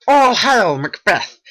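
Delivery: high, loud ringing hail; witch's loud hail. Acted. Witch hails Macbeth on the heath, loud and high. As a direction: hail him like a prophecy from the mist.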